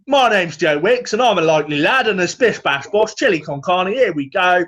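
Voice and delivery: hammed-up ad patter, rattled off cheerfully; Joe Wicks impression. Mocking the ad that always started, cheeky Cockney patter. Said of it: "it always started with".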